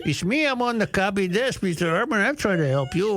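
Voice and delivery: put-on Mexican accent. Copy desk prankster offering help in a put-on Mexican accent. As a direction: imitate a helpful caller in a mock Mexican accent. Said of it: "doing an accent like this".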